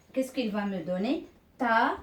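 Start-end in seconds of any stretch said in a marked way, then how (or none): 1.6-2.0 loud, separated teaching syllables; syllable-by-syllable reading. Shown as a demonstration. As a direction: sound out each syllable firmly for learners. Teacher demonstrates joining two syllables. (lecture forte, syllabe par syllabe)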